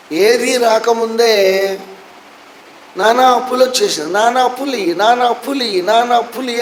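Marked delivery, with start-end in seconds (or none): 3.0-6.6 higher pretend calling of a boy for his father; mock yell. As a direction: call out to dad as a prank, higher. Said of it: "అని అరిశాడు".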